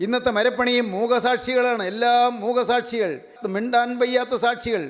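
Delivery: high, sustained preaching voice; declamatory sermon delivery. Real, not acted. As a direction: proclaim it phrase by phrase to a congregation. Preacher proclaims to congregation.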